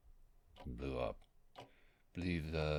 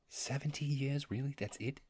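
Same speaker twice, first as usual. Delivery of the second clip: startled disbelief; 10 semitones higher than usual. Acted. Learns humans live only seventy.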